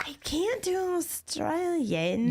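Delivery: attempted Australian accent. Player protesting the challenge, attempted Australian accent. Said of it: "D J said Australian accent".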